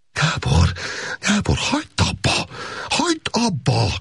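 high pleading cry of Gábor's name; shouting at him to stop. Acted. Woman crying out at laughing Gábor, high pleading shout. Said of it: "kiáltotta Szolga Erzsébet".

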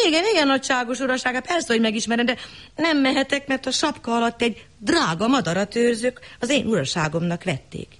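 high, fast and obsequious; fawning servant. Acted. Mason to the lord, fast and fawning. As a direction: rattle it off humbly.

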